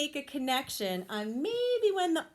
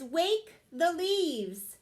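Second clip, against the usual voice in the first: strong call; 4 semitones higher, 4 dB louder, much slower than usual. Acted. Wadney calls again.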